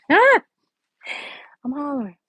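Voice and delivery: slow, high, laughing through it. Real, not acted. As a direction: break up laughing mid-line. Cracking up at own joke.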